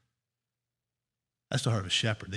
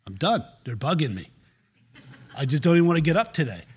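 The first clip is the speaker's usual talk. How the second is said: mock weary Jesus. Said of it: "he woke up in the morning and says".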